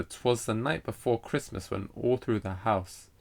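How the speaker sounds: lilting beat on "night", "Christmas", "house"; verse line with every third syllable leaned on; metrical verse reading. Shown as a demonstration. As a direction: recite it to show the anapestic rhythm. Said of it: "this is very similar to".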